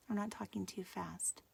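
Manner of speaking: soft whisper to herself; whispered aside. Real, not acted. Teacher whispering to herself while watching the iPad. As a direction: mutter it under your breath.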